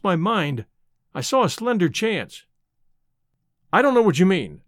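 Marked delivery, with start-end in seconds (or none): 3.7-4.6 a rough, slightly louder retort. A narrator's reading. Fugitive denying his name to the old man, rough retort. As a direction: brush him off roughly. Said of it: "I said roughly".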